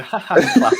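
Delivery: flat put-on ha ha ha to humor him; fake laugh. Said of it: "humor him and just go".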